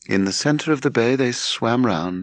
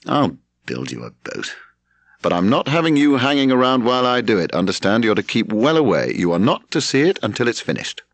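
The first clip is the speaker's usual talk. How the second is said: exasperated; 3 semitones higher than usual. Acted. Leslie agrees to build the boat, sternly exasperated. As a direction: lay down the rules, irritated and stern. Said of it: "said Leslie exasperately".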